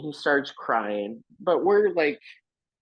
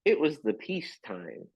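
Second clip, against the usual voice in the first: Bert voice; 5 semitones higher than usual. Retold or imitated. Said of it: "and he's like".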